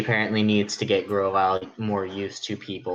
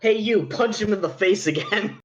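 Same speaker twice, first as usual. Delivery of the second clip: bossy order; 13 semitones higher, 3 dB louder than usual. Retold or imitated. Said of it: "Not, you know".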